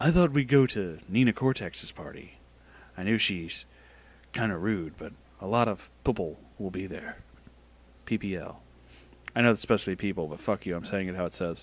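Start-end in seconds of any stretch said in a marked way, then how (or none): 0.0-8.6 dead-serious, grave put-on voice. Reading Crash's text message aloud in the story: serious voice. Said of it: "the fucking serious voice".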